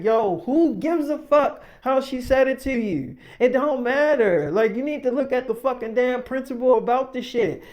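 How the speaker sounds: imitated exasperated argument; retold heated scolding. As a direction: act out fed-up ranting at a friend. Retold heated telling-off of friend.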